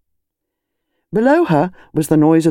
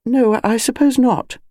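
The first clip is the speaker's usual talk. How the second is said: slow, doubtful murmur; hesitant, unsure of herself; 8 semitones higher than usual. Acted. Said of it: "said Missus Bantry doubtfully".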